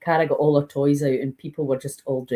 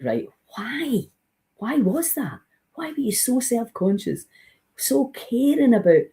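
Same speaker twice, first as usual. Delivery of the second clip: questioning self; 8 semitones higher than usual. Retold or imitated. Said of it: "you're like".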